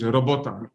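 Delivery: robota in Polish, ro-BO-ta with a tapped r and open o; Polish word. Shown as a demonstration. Surgeon explaining what the word means in his language, Polish pronunciation. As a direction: give robota its native Polish sounds. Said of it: "this is how we understand in my language".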